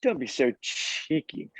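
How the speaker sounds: mock posh British accent; lightly done British impression. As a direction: put on a hammed-up British accent. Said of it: "my best British accent".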